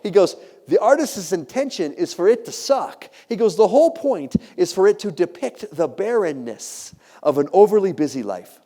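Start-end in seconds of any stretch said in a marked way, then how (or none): 0.7-3.1 high, slow, emphatic guard voice; imitated French guard. French guard explaining the painting to tourist, emphatic. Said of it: "And in broken English". 3.5-8.6 imitated French guard. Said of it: "And in broken English".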